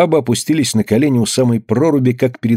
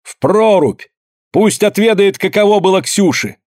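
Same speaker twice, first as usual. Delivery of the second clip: Anna avenging her friend, furious high shout; vengeful shout; 9 semitones higher than usual. A narrator's reading. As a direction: demand it in fury, much higher. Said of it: "крикнула Анна".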